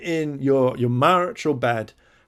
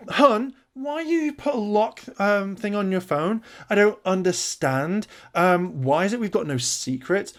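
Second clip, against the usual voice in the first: mock suspicious girlfriend; 8 semitones higher than usual. Mocking the girlfriend demanding why the phone is locked, high and whiny. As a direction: drag it out like a hurt, prying partner.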